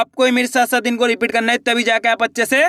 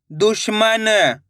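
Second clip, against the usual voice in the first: slow, drawn-out blending of the word; slow clear reading; much slower than usual. Shown as a demonstration. Teacher to pupils, blending the word slowly. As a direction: stretch each syllable for the pupils. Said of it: "एक एक अक्षर का उच्चारण सही से करना".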